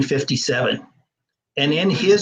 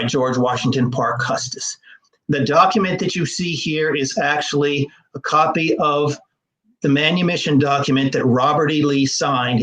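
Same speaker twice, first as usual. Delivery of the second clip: choked up. Real, not acted. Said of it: "I'm getting choked up talking about this".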